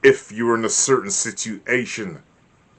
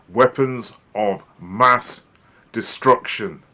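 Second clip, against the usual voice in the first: very slow, louder, drawn out; ominous emphasis; 4 dB louder, slower than usual. Shown as a demonstration. Teacher drawls the news phrase ominously. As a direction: stretch it to stir fear. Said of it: "conjure up fear in their minds".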